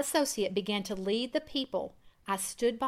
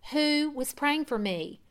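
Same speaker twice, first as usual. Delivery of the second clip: higher, slow pressing demand; cross-examining; 5 semitones higher than usual. Acted. Daughter interrogating her father about who prayed, pressing. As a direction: press him like an attorney. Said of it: "like that of a cross-examining attorney".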